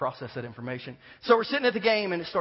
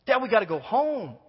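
put-on scared kid pleading; 7 semitones higher, 6 dB louder than usual. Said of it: "he's scared".

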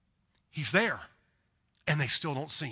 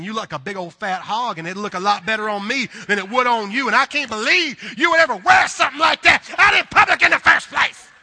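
rising to a loud, higher mocking rant; catty inner thoughts; 4 semitones higher, 8 dB louder than usual. Preacher voicing the Southern woman's nasty thoughts, building to a shout. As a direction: start snide and build to a shouted, laughing jab. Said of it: "she's thinking".

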